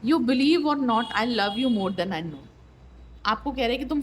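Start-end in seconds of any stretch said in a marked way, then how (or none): 0.0-2.4 very slow, drawn-out reading; slow card message. Acted. Tarot reader voicing the partner's love message, very slowly. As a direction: stretch the message out word by word.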